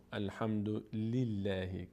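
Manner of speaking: الحمد لله with a thin clear L and front æ; slow الحمد لله, light vowel in لله; thin, unrounded لله after الحمد; light lam. Shown as a demonstration. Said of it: "خونده نمیشه".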